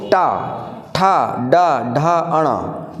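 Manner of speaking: टा, ठा, डा, ढा, अणा with the tongue curled back to the roof; teacher's separated retroflex टा, ठा, डा, ढा, अणा; retroflex sounds demonstrated. Shown as a demonstration. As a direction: say टा, ठा, डा, ढा, अणा one by one, tongue tip bent upward. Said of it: "मुड़ करके ऊपर स्पर्श करे".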